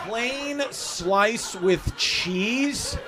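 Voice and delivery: drawn-out sneering repeat; mocking the order. Comic sneering at the customer's order, very slowly. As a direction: stretch it out in disbelief.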